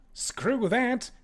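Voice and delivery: high-pitched indignant squeal; near hysterics. Acted. Ambassador refuses another way out, high hysterical outburst. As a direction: let the voice leap up in protest. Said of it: "Feldkauf was nearing hysterics again".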